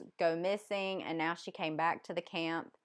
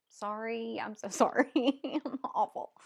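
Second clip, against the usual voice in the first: higher voice breaking into a laugh; laughing apology; 3 semitones higher than usual. Real, not acted. Reviewer sorry for mangling a name, laughing. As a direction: apologise through real giggles.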